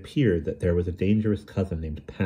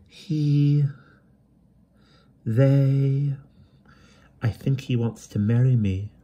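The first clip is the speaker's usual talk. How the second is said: stammering; 7 semitones higher, much slower than usual. A narrator's reading. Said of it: "stammered Elfine".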